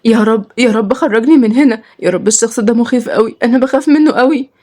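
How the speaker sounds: high, distressed plea to God; acted frightened weeping plea; tearful prayer. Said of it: "مخضوضة جدًا وفضلت تعيط".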